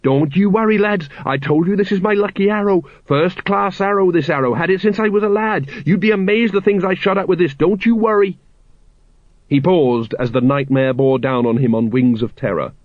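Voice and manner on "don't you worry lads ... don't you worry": high-pitched anxious babble; nervous reassurance. A narrator's reading. Colon reassuring his men as the dragon nears, nervous.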